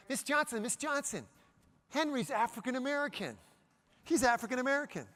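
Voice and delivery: put-on high, eager child's voice calling teacher; excited little kid. Child calling out to teacher, high eager voice. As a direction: kid with hand up, telling teacher about his friend, high and eager.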